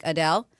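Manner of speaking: the name with a short "dell" ending; the name, short e in the last syllable; common pronunciation. Shown as a demonstration. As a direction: say the name to rhyme with bell. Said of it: "Not like U H D E L".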